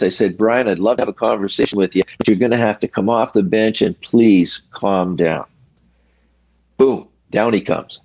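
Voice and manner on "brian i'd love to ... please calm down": calm monotone. Retold or imitated. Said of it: "monotone voice".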